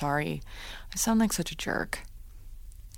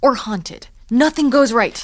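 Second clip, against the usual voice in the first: louder, exasperated complaint; frustrated outburst; 5 semitones higher, 8 dB louder than usual. Acted. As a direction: throw up your hands.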